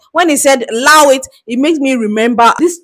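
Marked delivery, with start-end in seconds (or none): 0.7-1.3 lightly imitated British slang; imitated British accent. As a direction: quote it with a hint of British accent. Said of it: "it's a British accent to say".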